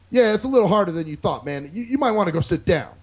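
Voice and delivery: mock-helpful condescension; condescending. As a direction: talk down to him, imitating a patronizing guy. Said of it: "he's kinda condescending to me".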